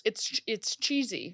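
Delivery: stiff lips, slow and soft; lip filler. Real, not acted. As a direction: talk with numb swollen lips. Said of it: "Can't even say cheesy".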